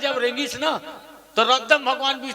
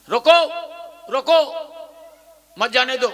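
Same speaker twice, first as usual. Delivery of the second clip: loud, higher रोको twice, each set apart; urgent command; 3 semitones higher, 4 dB louder than usual. Acted. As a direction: call out an order to stop. Acting out an order to stop.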